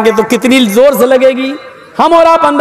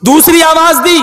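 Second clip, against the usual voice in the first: higher-pitched, pressing question; angry questioning; 4 semitones higher than usual. Acted. Prophet pressing the servant about his second call, angry. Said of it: "गुस्से में आए".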